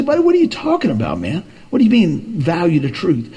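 quoting a doubter. Retold or imitated. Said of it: "You say".

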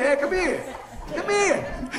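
high, loud mock summons; playful calling out. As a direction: holler them over, joking. Acts out calling the girl over.

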